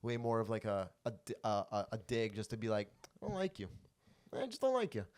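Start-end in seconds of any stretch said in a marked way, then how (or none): 3.2-5.0 soft, higher-pitched, unhurried little dig; imitated calm. Retelling a quiet dig at a comic, calm. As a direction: deliver the dig lightly and calmly. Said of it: "Like, calm".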